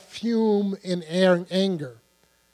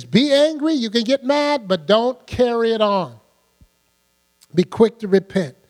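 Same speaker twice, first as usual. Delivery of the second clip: forceful preaching; 3 semitones higher, 4 dB louder than usual. Acted.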